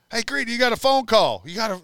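mock French accent. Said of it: "He's talking in his big French accent".

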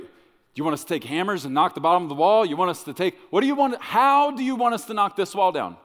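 fast, high, mounting disbelief; acted exasperated bewilderment, pitched high; incredulous questioning. Joshua questions God's odd plan.

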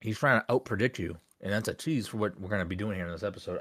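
talking around ice cubes; ice in mouth. Real, not acted. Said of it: "I don't know why I put ice in my mouth while I'm talking".

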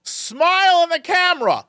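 dad's high, cheerful camera coaxing; mock dad urging a smile for the photo; imitating dad. Dad coaxing son to smile for photo, high cheerful. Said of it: "the only thing I hear him go is".

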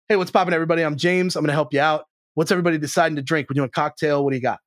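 relaxed, natural server greeting; just talk to the table like yourself; authentic casual waiter. Retold or imitated. Restaurateur shows a genuine waiter greeting the table, easygoing. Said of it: "That's much more authentic".

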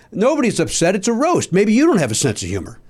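imitating Dom. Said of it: "Dom's reply in retold exchange".

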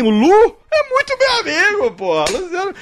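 excited. Retold or imitated. Excited boast about friend.

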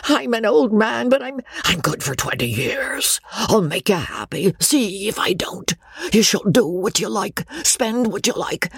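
high-pitched, eager pleading; wheedling old baronet character; begging old suitor. A narrator's reading. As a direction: coax and promise with pitch held high. Old man begs her to marry.

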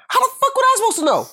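squeaky indignant protest; husband exasperated at the conditioner; high exasperated outburst. Real, not acted. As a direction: throw it up high in disbelief.

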